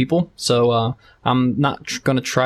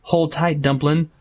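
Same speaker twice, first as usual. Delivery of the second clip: overly aggressive tone. Acted. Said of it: "her overly aggressive ter-, uh, tone".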